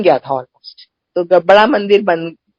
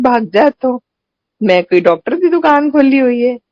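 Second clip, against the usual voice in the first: mild mock scolding, slightly higher pitched; retold scolding; 4 semitones higher than usual. Guru sends off a woman asking about her throat, mildly imitated scolding. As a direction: imitate a sharp telling-off without really shouting. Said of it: "इतनी जोर से डांटा".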